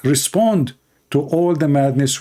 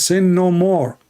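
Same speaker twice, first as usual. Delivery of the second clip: raised, commanding quote; quoting the Lord; 5 semitones higher, slower than usual. Retold or imitated. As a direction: proclaim it high and firm. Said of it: "he says".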